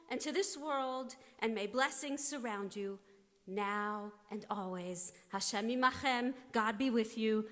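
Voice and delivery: solemn blessing, each phrase lifted; prayerful blessing. Acted. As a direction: bestow a blessing on the leader with reverence. Blessing a leader at ceremony.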